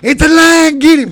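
high, full-voiced alarm; loud, excited retold command; urgent shout. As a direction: holler to a hunting partner to shoot. Retold call to shoot lion.

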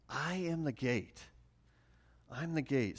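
a hushed, deliberate repeat of the verse. Shown as a demonstration. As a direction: drop the voice and savour it.

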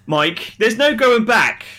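hammed-up doom, drawn out; a playful threat, loud and slow; mock ominous warning. Ominous warning about spoilers.

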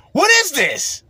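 high, loud shocked squawk; a disgusted yelp at the plate; outraged disbelief. Acted. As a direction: recoil at the food in mock horror. Outraged at restaurant food.

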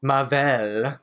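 "Marvel" said as mar-VELL; playful odd pronunciation. Shown as a demonstration. Riffing on a chat member's name, playful odd pronunciation. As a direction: stretch the end of "Marvel" into -vell. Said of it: "It's like microwave".

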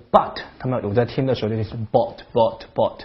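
but with the vowel rounded toward "o"; Bath accent. Shown as a demonstration. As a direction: say but like "bot". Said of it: "那个音发成了哦".

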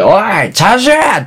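a high, snapping mock bark at the worker; imitating angry boss. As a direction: act out the ramen boss yelling an order. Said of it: "切れられんだよ".

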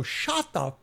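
high, drawn-out mock scream without full volume; retold scream. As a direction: re-enact screaming at an opponent, held back. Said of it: "Scream it".

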